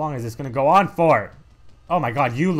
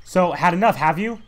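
louder smug farewell; lightly voiced gloating fighter; 5 semitones higher, 4 dB louder, slower than usual. Fighter gloating over the player, smug. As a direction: gloat at the loser.

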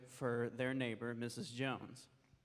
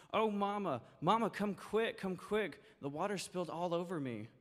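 put-on wailing child; 6 semitones higher than usual. Soaked daughter wailing for her mother, high panicked wail. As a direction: wail for mama to come quick. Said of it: "wailed Janet".

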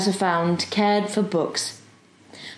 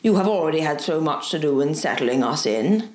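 lightly voiced professor, pitched lower; a touch of courteous scholar, lower; 5 semitones lower than usual. Professor to his young neighbour, mildly courteous.

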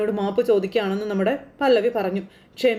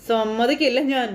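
mock defiance; slower than usual. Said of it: "വലിയ dialogue അടിക്കുമ്പോൾ".

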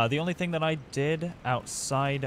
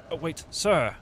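stagey fake archaic declaiming; 7 semitones higher, 6 dB louder than usual. Mock knightly address to enemy.

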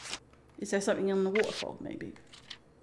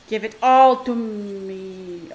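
greedy drawl; 2 semitones lower, 6 dB louder, much slower than usual. Acted. Grabbing a medipack.

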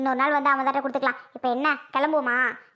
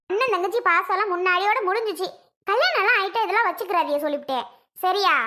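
irritated scolding; 3 semitones higher than usual. Acted. Wife to husband and his crying sister, irritated scolding. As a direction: pitch raised, laying down the law.

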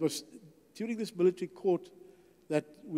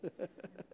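soft breathy laugh; 14 dB quieter than usual. Retold or imitated. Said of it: "And I started to laugh".

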